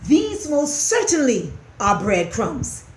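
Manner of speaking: firm stress on "These most certainly"; insist, leaning on "certainly"; "certainly" punched as a firm assertion; emphatic. A narrator's reading. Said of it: "he said emphatically".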